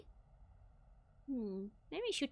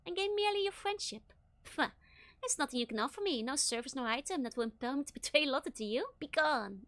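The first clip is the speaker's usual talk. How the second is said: sneering; 3 semitones higher than usual. Acted. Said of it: "Stern's skull is sneering at you".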